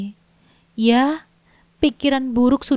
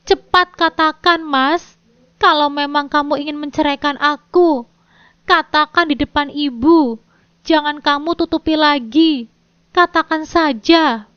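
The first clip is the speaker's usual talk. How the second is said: high, louder defiant demand; challenging; 3 semitones higher, 4 dB louder than usual. Acted. Wife challenging husband in front of her mother, defiant. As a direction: dare him to say it.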